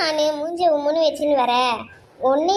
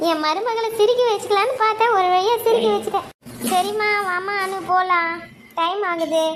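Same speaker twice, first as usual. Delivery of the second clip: put-on higher, cheerful older woman; a pleased mother-in-law coaxing her daughter-in-law along; mother-in-law pleased she made the bride laugh, higher voice; 7 semitones higher than usual.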